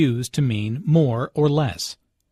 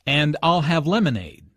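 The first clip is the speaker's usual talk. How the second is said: emphasize the choice with "I'll" and "lemonade"; stress on I'LL and LEMONADE. Shown as a demonstration. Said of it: "Notice how Anna stresses".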